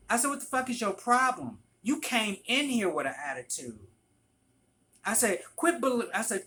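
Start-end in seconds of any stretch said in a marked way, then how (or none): 0.3-3.8 raised, confrontational retold outburst; flipping out. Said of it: "I flipped out". 5.6-6.1 higher, louder retold scolding; flipping out. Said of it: "I flipped out".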